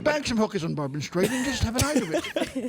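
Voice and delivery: put-on British accent; cheeky fake English, laughing. Shown as a demonstration. Guest ignoring the no-swearing rule, put-on British accent. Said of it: "it's like Churchill's here".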